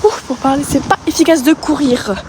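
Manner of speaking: talking while running; jogging and panting while talking; out of breath. Real, not acted. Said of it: "là je cours".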